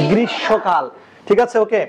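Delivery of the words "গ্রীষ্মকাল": গ্রীষ্মকাল said as "grishokal" with the m dropped; spoken pronunciation. Shown as a demonstration. Teacher answers her own question with the proper গ্রীষ্মকাল. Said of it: "হবে কি?".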